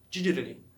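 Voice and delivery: "digitally" run together as didgerly; word from The Flash. Shown as a demonstration. Learner quoting a tricky word from The Flash, run-together pronunciation. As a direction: say "digitally" as the show does, syllables blurred. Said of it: "quando eu assistia The Flash, era digitally".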